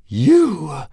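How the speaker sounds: high, loud, menacing dragon; hissed. A narrator's reading. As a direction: spit it out as a threat. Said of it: "hissed Fireworm".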